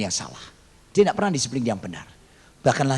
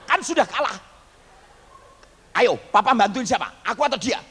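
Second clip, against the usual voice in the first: put-on high, sulky kid's complaint; whining child; 8 semitones higher than usual. Boy complains to papa about favouritism, whiny. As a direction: whine like a sore loser.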